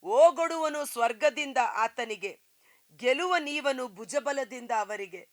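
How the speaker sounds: usual speaking voice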